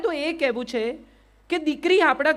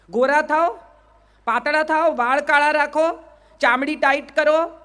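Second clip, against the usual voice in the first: a hint of a pushy ad announcer, a touch louder; mock ad slogans; 2 semitones higher, 4 dB louder than usual. Speaker to women audience, parodying beauty ads in mock ad voice. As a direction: sell it like a TV commercial, lightly mocking.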